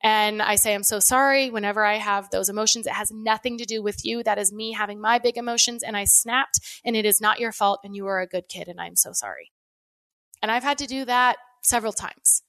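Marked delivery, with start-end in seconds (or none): 0.7-9.5 put-on gentle, reassuring apology to a child; tender apology. Mom apologizing to her child after snapping, tender and reassuring. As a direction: say sorry like a mom soothing her kid.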